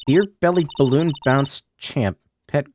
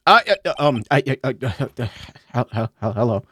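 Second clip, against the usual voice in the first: stuttering shy Ben; 2 semitones lower than usual. Acted. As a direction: trip over every word, painfully shy. Voices shy Ben character.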